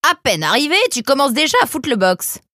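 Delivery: loud, high tirade; angry scolding. Acted. Small brown fox confronting Nemrod, angry scolding. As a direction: tell off the newcomer.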